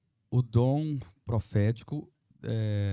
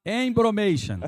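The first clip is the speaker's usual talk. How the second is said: mock English; 7 semitones higher, 6 dB louder, slower than usual. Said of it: "Isso não é espanhol, é inglês".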